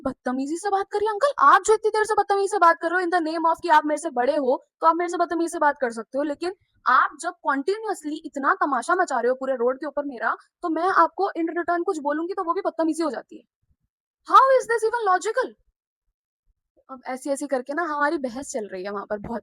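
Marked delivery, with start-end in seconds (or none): 0.1-13.4 high, loud, heated comeback to the uncle; indignant retort. Retold or imitated. Girl snapping back at a scolding uncle on the road, indignant. Retelling her quarrel with uncle. 14.3-15.5 very slow, loud and high, every word weighed; slow emphatic challenge. Retold or imitated. Girl finishing her argument with the uncle, slow and emphatic.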